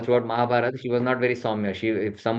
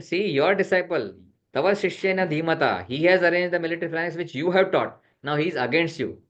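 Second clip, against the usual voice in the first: raised-pitch, mildly reproachful retelling; chastising; 5 semitones higher than usual. Retold or imitated. Duryodhana reproaches his teacher over the disciple, mildly chastising. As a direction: lightly scold in a higher voice. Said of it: "So he's chastising".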